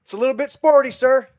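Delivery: a hammed-up officer's one-liner; calm soldier quip. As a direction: savour the cool understatement. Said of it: "that scene where he goes".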